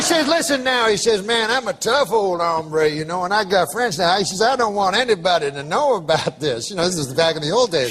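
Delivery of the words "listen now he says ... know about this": Southern drawl. Retold or imitated. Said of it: "I can tell by the accent".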